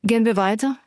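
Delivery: ordinary delivery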